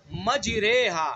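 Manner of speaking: مجریہا slow, vowel between a and i; imala vowel. Shown as a demonstration. Teacher modelling imala in مجریہا. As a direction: draw out مجریہا with the vowel between zabar and zer. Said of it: "دونوں کے درمیان کا پڑھنا ہے".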